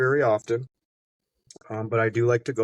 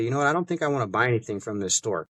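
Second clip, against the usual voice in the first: offhand remark; faster than usual. Shown as a demonstration. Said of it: "Just like that, the way that I'm saying".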